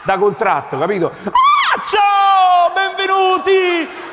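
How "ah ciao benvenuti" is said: much higher, loud and bubbly; gushing welcome. Acted. Resort rep greeting the tired newlyweds at the airport, shrill with forced joy.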